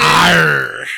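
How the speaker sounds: pirate growl. Pretend. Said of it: "that's a bad pirate".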